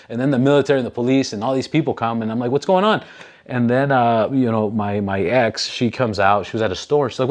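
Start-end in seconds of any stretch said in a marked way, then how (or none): 2.5-3.0 a much higher startled question; confused surprise. Retold or imitated. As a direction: sound baffled and alarmed. Confused at police arriving.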